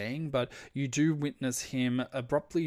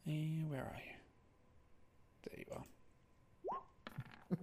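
whispered to himself; whispered aside; 3 semitones higher, 13 dB quieter, much faster than usual. Real, not acted. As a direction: whisper it while searching. GM whispering while searching.

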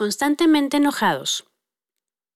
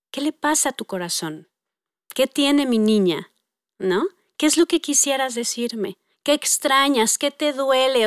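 gentle, vulnerable tone; 3 dB quieter than usual. Retold or imitated. Mom asks daughter about her heart, tenderly. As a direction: coax softly toward the hurt. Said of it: "Como para entrar en esa parte vulnerable".

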